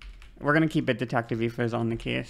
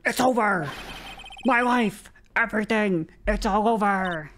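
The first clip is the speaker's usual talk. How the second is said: higher, mock despairing cry; screaming client; 6 semitones higher than usual. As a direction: wail like a hammed-up doomed client. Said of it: "your client screaming over there".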